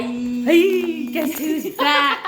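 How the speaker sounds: excited greeting. Real, not acted. Greeting friends on call.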